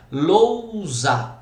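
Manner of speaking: "Lousa" com "lou" alongado numa só sílaba; ditongo destacado. Shown as a demonstration. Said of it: "duas vogais na mesma sílaba". ("Lousa" dito lou-sa, vogais juntas)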